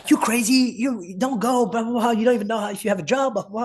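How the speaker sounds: high-pitched, imitating alarmed coaches; retold protest. Retold coaches urging him not to go.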